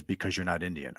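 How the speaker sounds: retelling her reluctant murmur; begrudging murmur. Retold or imitated. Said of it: "she, she murmurs".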